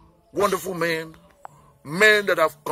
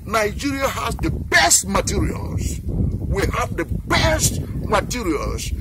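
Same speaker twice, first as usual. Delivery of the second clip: building pride; 5 semitones higher, slower than usual. Real, not acted. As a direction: swell with pride, words drawn out. Patriotic praise of nation's forces.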